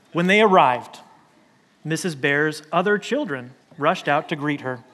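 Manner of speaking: measured picture-book narration with lightly acted dialogue; reading to children. A narrator's reading. Pastor reading Chaco's story to kids on the steps, storytelling. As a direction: read it gently to little listeners.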